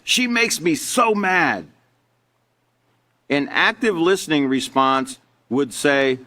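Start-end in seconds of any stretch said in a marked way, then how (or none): 0.0-1.7 higher, drawn-out mock exasperation, not truly shouted; half-hearted angry outburst at normal volume; mock angry yell. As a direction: act out a mild yell, stretching the words. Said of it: "Susie yells".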